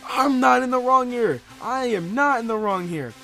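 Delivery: high, loud, insistent self-defence; outraged yell, hammering each word; indignant protest. Retold or imitated. Storyteller to accusing guy, indignant shout. Retold protest at being blamed.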